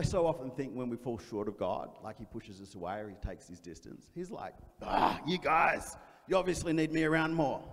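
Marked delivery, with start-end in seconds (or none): 4.8-7.6 a touch of mock exasperation; exasperated Jesus. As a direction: groan it like a fond, fed-up teacher.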